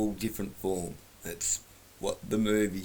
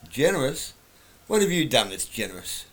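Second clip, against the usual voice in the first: put-on terrible girl's voice; 3 semitones higher, 3 dB louder than usual. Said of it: "terrible girl's voice".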